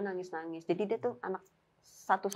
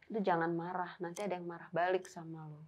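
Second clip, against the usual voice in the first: soft, lowered caution; retold quiet warning; 3 semitones lower, 8 dB quieter than usual. Friend warns teller not to get angry, hushed. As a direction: imitate a friend warning under the voice.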